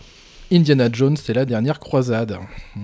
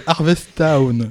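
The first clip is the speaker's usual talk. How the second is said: English accent; much slower than usual. Real, not acted. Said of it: "l'accent anglais chez toi".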